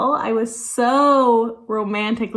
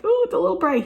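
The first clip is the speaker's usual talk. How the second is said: much higher, coy quote of herself; mock modest reply; 9 semitones higher, much faster than usual. To her husband about her bright eyeshadow, high and bashful.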